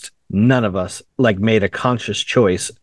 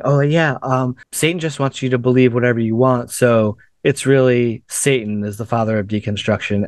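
sincere YouTuber voice. Retold or imitated. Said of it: "amusing to watch her say it".

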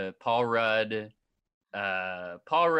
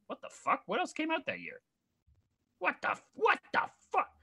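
shocked disbelief; faster than usual. Real, not acted. Shocked at the box office ranking.

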